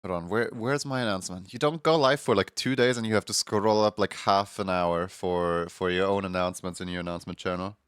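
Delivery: blocked nose, morning voice; congested. Real, not acted. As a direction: talk like someone is holding your nose shut. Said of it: "Do I sound congested?".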